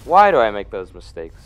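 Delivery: loud exasperated self-scolding; exasperated loud whine; frustrated yell. Real, not acted. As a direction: yell at yourself for a dumb mistake. Loud self-scolding after failing boss.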